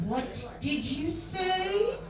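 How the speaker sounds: slow, drawn-out threat; hint of a scary mother's warning; menacing mother. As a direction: stretch each word like a mom about to snap. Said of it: "this low, gravelly voice".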